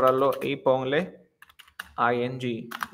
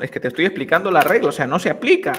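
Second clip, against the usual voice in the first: exasperated teacher; 3 semitones higher, 6 dB louder, faster than usual. Acted. Acted exasperated reply to objecting student.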